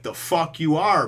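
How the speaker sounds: slow, loud, defiant snarl; a slow, loud, furious comeback; angry retort. Retold or imitated. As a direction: spit it back at the pirate. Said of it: "So Genzo's like".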